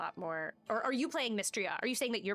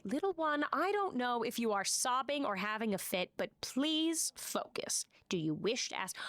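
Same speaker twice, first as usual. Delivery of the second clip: Sphinx voice. Acted.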